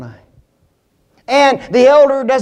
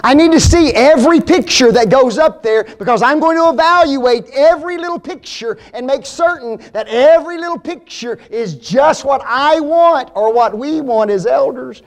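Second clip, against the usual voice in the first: fussy micromanager; 4 semitones higher than usual. Pretend. Acting a micromanaging elder.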